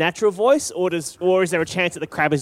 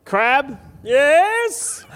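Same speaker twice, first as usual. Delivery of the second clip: crab voice; 8 semitones higher than usual. Acted. Player voicing the crab.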